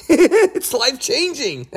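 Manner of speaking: breaking into real laughter mid-word; high, slow words through a laugh. Real, not acted. Preacher at Mount Tabor laughing in amazement. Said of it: "I'm not laughing, I'm at, at anything here".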